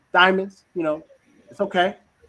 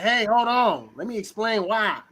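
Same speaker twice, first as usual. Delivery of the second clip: raised-pitch mock protest; defensive; 5 semitones higher than usual. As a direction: cut in to justify yourself. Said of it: "'cause you feel threatened".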